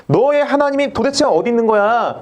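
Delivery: mocking taunt. Bystanders challenging David about his God, mocking. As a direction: taunt him, demanding an answer. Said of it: "그러면서 막 조롱하는 거예요".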